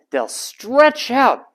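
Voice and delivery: "stretch out" drawn out slowly, vowels stretched. Shown as a demonstration. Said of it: "they'll stretch out the vowels".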